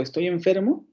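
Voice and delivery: "Estoy enfermo" lifted to a rise at the end, asking the doctor; questioning tone. Shown as a demonstration. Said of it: "el sentido cambia". ("Estoy enfermo" dicho como pregunta al doctor)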